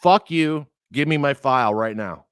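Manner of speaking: retold furious outburst at the doctor; angry retort. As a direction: demand the file, heated. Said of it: "I'm like".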